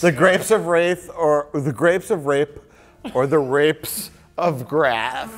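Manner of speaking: "grapes of wraith", "grapes of rape", "rapes of grath": trying out swapped sounds; deliberately garbling "The grapes of wrath"; jumbled syllables. Shown as a demonstration.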